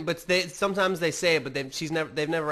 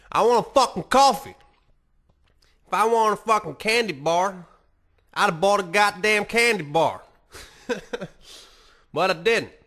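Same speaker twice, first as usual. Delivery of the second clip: much louder and higher, yelling; frustrated rant; 6 semitones higher, 8 dB louder than usual. Real, not acted. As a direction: blow up about the coffee. Ranting about sweet coffee.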